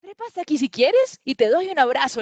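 high, loud monkey call; shrieking monkey. Acted. Monkey inviting the little leopard up for a hug, screeching. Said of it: "le chilla el mono".

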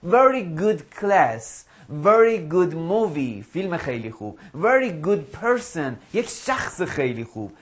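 very slow, spelled-out examples. Shown as a demonstration. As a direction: lay out each example slowly.

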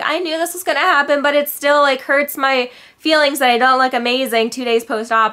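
high, loud, fast whiny imitation; mock upset girl. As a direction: mimic a crying girl, hammed-up. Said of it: "they're like".

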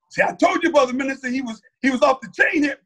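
high-pitched mock tattletale; tattling dig. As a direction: act out a colleague telling on him to the boss. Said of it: "to throw a dig on me".

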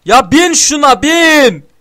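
slow, loud, high yell; frustrated shout. Real, not acted. Gamer yelling at teammate to get in the car, angry shout. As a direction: order them in, fed up.

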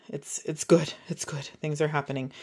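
talking through hiccups. Real, not acted. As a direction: hiccup between the words. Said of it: "I have the hiccups right now".

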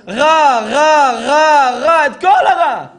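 high, loud repeated crow caws; shouting crow. Retold or imitated. Preacher showing what the crow shrieks, shouted cawing. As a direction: caw the word out forcefully, beat by beat. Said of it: "צועק".

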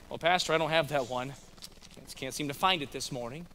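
lightly voiced low, soft reply; imagined church member.

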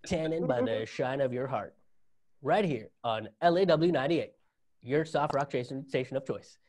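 lightly voiced cheesy radio DJ intro. Comedian imagining a radio DJ plugging a singer, lightly voiced. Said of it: "A little bit like".

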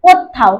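কোথাও with a doubled থ; stressed double th. Shown as a demonstration. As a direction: stress the থ in কোথাও so it sounds twice. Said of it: "থটা এখানে দুটো উচ্চারিত হয়েছে".

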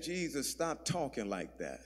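low, very soft private scolding; hushed rebuke. Retold or imitated. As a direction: imitate a discreet telling-off in a corner. Peter privately rebukes Jesus in corner.

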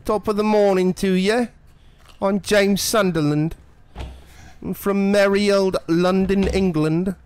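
high, loud, hammed-up Cockney gangster; Cockney gangster James Sunderland. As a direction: put on a silly over-the-top Cockney accent. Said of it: "James Sunderland is a Cockney gangster".

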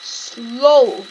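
playfully dragged, self-mocking; slow. Shown as a demonstration. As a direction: drag the words to act out being slow. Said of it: "I am a very slow person".

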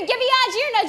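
Big Joe Henry said backwards; backwards speech. Shown as a demonstration. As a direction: reverse the words sound by sound. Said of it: "I could say any word backwards".

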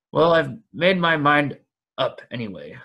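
put-on a lively elderly hobbit; cheerful, slightly fussy old hobbit. Bilbo's dialogue, voiced.

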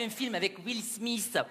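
mock French accent on Will Smith; French-accented English. Quebecer mimics Rachid naming the actor, mock French accent. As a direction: imitate a French speaker mangling Will Smith. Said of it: "vous n'avez pas le même accent que nous en Amérique".

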